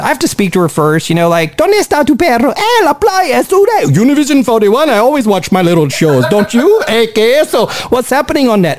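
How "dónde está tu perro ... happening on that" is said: put-on old lady voice.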